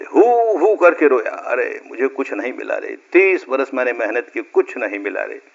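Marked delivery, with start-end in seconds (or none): 0.0-0.8 drawn-out mock "hoo hoo" sob; imitated wailing. Storyteller mimicking the despairing meditator's wail, mock sobbing. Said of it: "रोया जोर से". 1.3-5.4 soft, understated tearless lament; acted despairing lament. Seeker despairs after thirty fruitless years, understated mock weeping. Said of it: "निराश होकर के रोया जोर से".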